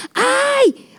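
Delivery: sudden high yelp of discovery; a sharp little cry on spotting them; found it. Retold or imitated. Mother suddenly spotting her lost glasses, surprised.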